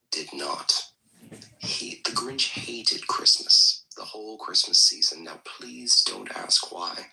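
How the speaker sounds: hushed, breathy bedtime-story read; reading the Grinch aloud in a put-on hushed storyteller voice; storybook voice. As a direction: read it like a whispery children's tale. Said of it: "I can't deal with the voice".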